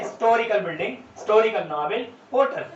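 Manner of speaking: "हिस्टोरिकल" and "होटल" without their h; silent H. Shown as a demonstration. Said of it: "पहले syllable पर जोर ना दिया जाए". (हिस्टोरिकल और होटल बिना ह के बोलें)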